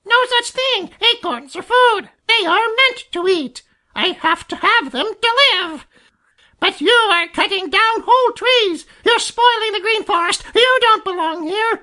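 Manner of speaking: very high-pitched screeching jay; furious, squawking character tirade; excited screaming. A narrator's reading. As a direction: rant in a piercing bird screech. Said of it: "the louder he screams".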